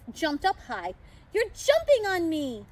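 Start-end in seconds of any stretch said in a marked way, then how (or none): 1.3-2.6 raised, louder exclamation; Santa's cry. A narrator's reading. Santa as the pixie jumps on him, crying out. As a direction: cry out in surprise. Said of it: "I heard Santa cry".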